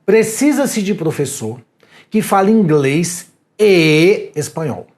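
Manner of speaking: "e" in "inglês e espanhol" held and stressed; slow announcement read. Shown as a demonstration. Teacher reading out a job ad, slow and deliberate. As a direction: read the ad slowly, leaning on "e". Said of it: "vai colocar lá o seguinte anúncio".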